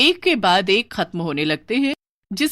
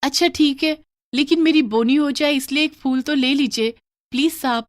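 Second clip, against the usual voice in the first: much higher, louder coaxing plea; pleading flower girl; 7 semitones higher, 4 dB louder than usual. Acted. Flower girl pressing the man for her first sale, pleading high. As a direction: wheedle him into buying just one flower.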